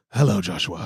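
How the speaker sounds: put-on grumpy voice. Retelling a voicemail caller's greeting: imitating a disgruntled greeting. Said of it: "he just sounded so disgruntled and goes".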